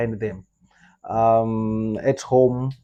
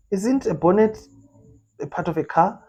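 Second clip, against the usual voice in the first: puzzled; 8 semitones higher than usual. Real, not acted. Questions the word in disbelief.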